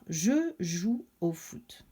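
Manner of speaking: plus grave et lent, un garçon qui annonce; voix de Samuel. Acted. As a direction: fais parler Samuel posément. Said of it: "tout ce que Samuel pourrait dire". (garçon qui dit lentement je joue au foot)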